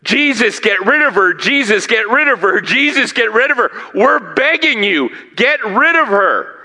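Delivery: mock apostles pleading. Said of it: "guess what the apostles are doing?".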